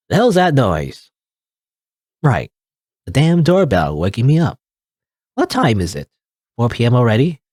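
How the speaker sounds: lightly voiced old woman; a hint of a grumpy grandma. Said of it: "this is my grandma voice".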